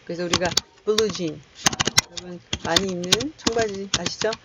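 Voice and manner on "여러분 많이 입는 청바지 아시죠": ordinary talk, nothing marked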